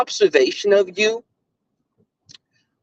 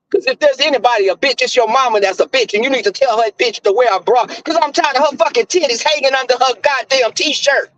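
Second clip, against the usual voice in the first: retold heated tirade; going off on him; 4 semitones higher than usual. Retelling insults thrown at an ex, heated. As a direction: re-enact a fast-building rant at him. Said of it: "I went off on him".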